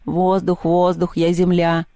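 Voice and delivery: mildly daft mimicked radio call; a hint of a goofy call-sign voice; silly voice. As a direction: lightly imitate someone playing the fool. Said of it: "таким дурным голосом отвечает".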